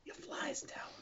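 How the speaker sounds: hushed, halting Walken-style aside; a loose take on Christopher Walken; Christopher Walken impression. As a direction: lean in like Walken to break the news. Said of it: "Christopher Walken impression".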